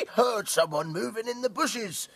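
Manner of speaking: squealing piglets. Acted. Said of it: "squealed the piglets".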